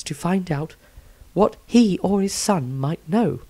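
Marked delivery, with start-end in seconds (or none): 0.0-0.7 whisper. Acted. Whispered aside in narration.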